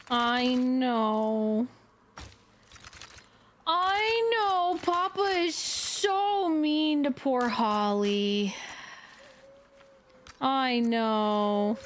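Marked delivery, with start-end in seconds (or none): 3.7-8.5 lightly voiced pitying baby talk, slow; mock pity. To the dog Holly, teasing baby-talk pity with slow words. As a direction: coo sympathy at the poor dog. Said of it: "voicing pity for Holly".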